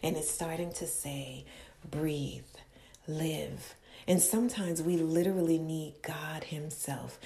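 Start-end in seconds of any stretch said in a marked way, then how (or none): 1.9-3.8 soft breathy whisper of God; whispered command. Acted. God whispering life into the broken caterpillar, hushed.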